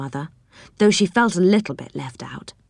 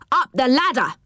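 yelled; 8 semitones higher than usual. A narrator's reading. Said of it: "yelled Moonface".

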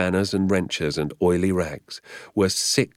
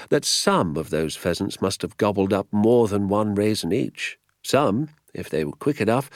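higher-pitched explanation in character; lightly voiced doctor; 5 semitones higher, 5 dB louder than usual. A narrator's reading. Doctor explaining his hunch about pheasants, lightly voiced. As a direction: explain the theory with keen emphasis.

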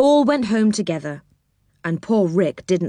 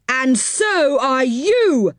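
mock yell; 7 semitones higher, much slower than usual. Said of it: "yelled What's-His-Name".

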